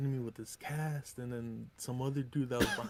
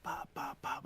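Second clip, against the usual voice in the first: quick spoken gunfire pops; mimicked gunfire; imitated gunshots. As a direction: punch out pops like shots going off. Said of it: "they just start shooting".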